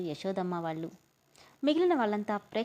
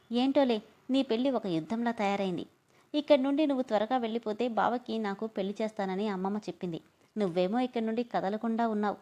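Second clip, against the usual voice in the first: sarcastic; 2 semitones higher than usual. Acted. Swarna taunting Ammu about her ruined marriage, sarcastic. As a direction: needle her with fake pity. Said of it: "వెటకారంగా".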